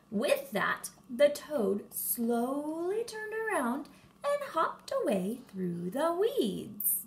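put-on lively read-aloud for young kids; animated children's story voice; storytime narration. A narrator's reading. Reads a picture book to children.

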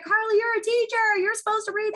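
high-pitched mock parent complaining; imitating a parent. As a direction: play the guilty parent pleading to the teacher. Parent quoted scolding teacher.

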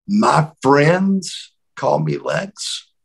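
slow, deliberate correction; measured, drawn-out warning; slow confrontation. Retold or imitated. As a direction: draw each word out to put him in his place. Lex confronts member in retold scene.

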